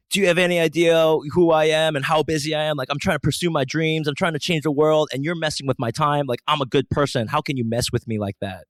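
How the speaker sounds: mock outrage, loud and high, gradually easing down; indignant rant. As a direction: protest like a wronged big shot, losing steam.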